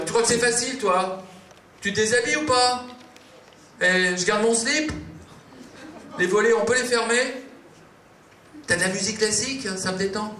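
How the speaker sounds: high anxious chatter; Daisy's flustered questions. Acted. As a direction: rattle off nervous worries.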